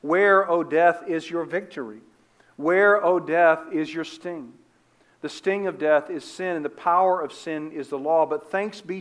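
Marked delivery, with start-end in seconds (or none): 0.0-2.0 triumphant proclamation. Retold or imitated. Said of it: "says triumphantly". 2.6-4.5 slow, louder preaching cry on Where; triumphant proclamation. Retold or imitated. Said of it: "says triumphantly".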